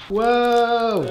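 high, drawn-out whoa, falling at the end; wowed by what just arrived; amazed whoa. Real, not acted. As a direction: let out an impressed whoa. Another dish arrives at table.

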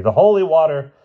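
high urgent shout; gasped, desperate yell. Acted. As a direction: cry out for the holy water. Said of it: "gasped the professor desperately".

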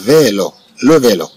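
"لو فيلو" said as lo velo, clearly; model pronunciation. Shown as a demonstration. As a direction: model "لو فيلو" for pupils to repeat. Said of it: "ثم عندنا لو فيلو".

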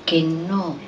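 measured poetic close, falling away; subdued final lines of a poem; poem recitation. Acted. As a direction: recite the ending slowly, letting it sink.

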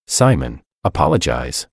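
put-on low, firm, clipped command to a child; a father laying down the law; stern order. Father sternly orders his defiant son to apologize. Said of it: "I ordered sternly".

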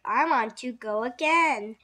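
loud, enthusiastic declaration; eager cry. A narrator's reading. Jake telling family about school, loud eager cry. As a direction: cry it out keenly. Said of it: "cried Jake".

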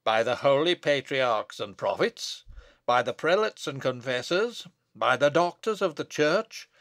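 solemn invocation building to a loud curse; cried-out curse. Acted. Abbot denounces Bess as a witch, building cry. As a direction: build phrase by phrase, slowing on the curse. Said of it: "cried Paslew".

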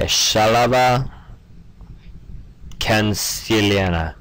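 Shalava Canciliana spoken slowly, syllable by syllable; sounding out a name. Shown as a demonstration. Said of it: "I can actually say one of the names".

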